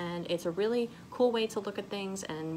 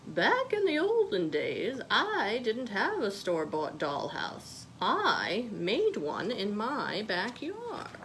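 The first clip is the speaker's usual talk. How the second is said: grandma's advice; slower than usual. Acted. Grandma telling Molly about the olden days, lightly voiced. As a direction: tell it like a fond grandma remembering. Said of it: "Her grandma had told her".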